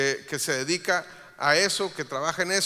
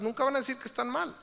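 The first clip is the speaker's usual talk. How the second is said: higher rising take; 6 semitones higher, faster than usual. Shown as a demonstration. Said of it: "repeated for emphasis".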